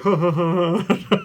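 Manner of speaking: forced stage-laugh ha ha ha; mock polite laughter. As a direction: fake a polite chuckle.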